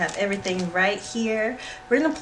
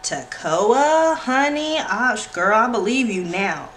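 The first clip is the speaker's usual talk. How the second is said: excited call; 3 semitones higher, 5 dB louder than usual. Real, not acted. Calling out to friend.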